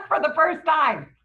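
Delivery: high, loud, amused tag line; laughing. Real, not acted. Capping the joke about meeting strangers, laughing. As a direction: say it through a laugh.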